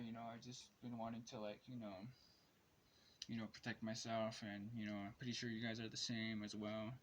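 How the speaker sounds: talking while smoking a cigarette; words around a cigarette drag; cigarette in mouth. Real, not acted. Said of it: "sorry, I'm smoking a cigarette right now".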